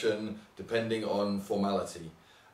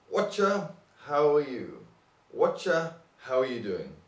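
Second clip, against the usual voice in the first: lively Cockney greeting, pitched up; London Cockney; 4 semitones higher, 3 dB louder than usual. Shown as a demonstration. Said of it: "in London Cockney language".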